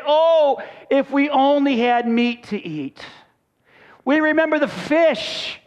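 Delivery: drawn-out, longing mock lament; mock complaining. Israelites tired of manna longing for Egypt's food, mock lament. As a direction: moan it like a hungry grumbler.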